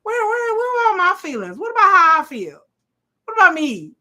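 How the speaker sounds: high, loud, near tears, pleading; mock anguished Alicent. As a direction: wail it like a jilted lover. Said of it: "Alicent's just like".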